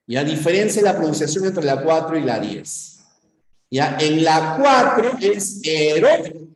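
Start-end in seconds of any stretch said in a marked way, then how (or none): 5.6-6.5 "heroico" slowly as he-RÓI-co, O stressed; stress on open vowel. Shown as a demonstration. Teacher contrasting two words for class, stressed O in "heroico". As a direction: lean on the O of "heroico", OI in one syllable. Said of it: "La fuerza de voz está en la abierta".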